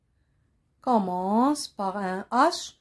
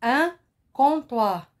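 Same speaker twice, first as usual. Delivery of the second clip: careful model word; 2 semitones higher than usual. Shown as a demonstration. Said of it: "Écoutez bien".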